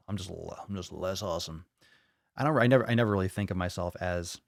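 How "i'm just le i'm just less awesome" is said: soft. Retold or imitated. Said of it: "That's why I always say".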